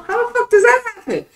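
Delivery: high, loud indignant shout; exasperated yell. Real, not acted. Comparing his Sonic pay to tax work, an exasperated shout. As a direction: demand an answer, fed up.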